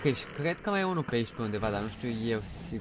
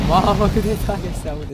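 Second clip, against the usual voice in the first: high, loud cry over the game noise; loud exclamation; 8 semitones higher, 14 dB louder than usual. Real, not acted. Gamer complaining the game is too loud, shouting.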